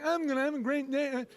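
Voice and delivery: lightly slurred imitation of a deaf kid; mock deaf kid's voice. Comic voicing deaf kid Dana leaving home, mock deaf voice. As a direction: imitate muffled, indistinct speech. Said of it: "like, walking out and saying".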